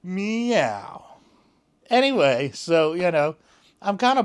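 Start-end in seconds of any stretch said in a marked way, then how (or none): 0.0-1.0 cat meow. Retold or imitated. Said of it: "And she said".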